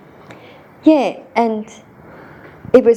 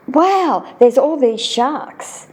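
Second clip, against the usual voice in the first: put-on amazed child; 6 semitones higher, much slower than usual. Child amazed at seeing sharks.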